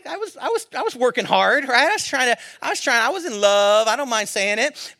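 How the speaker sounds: high, loud, fired-up exclamations; excited shout. Real, not acted. Preacher shouting his love story to the crowd, fired up. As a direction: shout it out to the congregation. Pastor hyping congregation, shouting.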